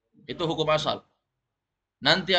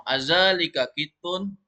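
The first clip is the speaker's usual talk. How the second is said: slow, clearly rising question on "Azalika kitun"; teacher models a slow asking tune; question intonation; 3 semitones higher, slower than usual. Shown as a demonstration. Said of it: "Ya, ulangi semua".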